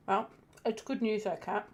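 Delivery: talking with a mouthful of chicken; chewing through the words; eating chicken strips. Real, not acted. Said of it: "Sorry, I'm eating chicken strips".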